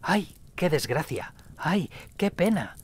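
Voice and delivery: put-on high, wavering old voice repeating the cry; an old man keening as he walks; a mournful old man repeating his cry; old man's lament. A narrator's reading. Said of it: "caminaba y repetía".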